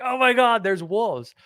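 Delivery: high-pitched imitating of a frightened public; mock panic. Host mocking Nova Scotians panicking over fake wolves, hammed-up fright. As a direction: squeal it like a spooked local. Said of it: "everyone was freaking out".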